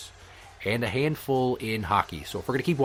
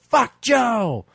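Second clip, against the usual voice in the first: higher, louder chanted answer; crowd shout back; 11 semitones higher, 7 dB louder than usual. Retold or imitated. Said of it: "And they'd go".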